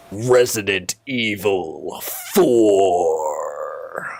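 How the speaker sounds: slow, strained announcer voice cracking; thin reedy voice. Shown as a demonstration. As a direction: stretch the title out in a weak thin voice. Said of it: "My voice is so weak today".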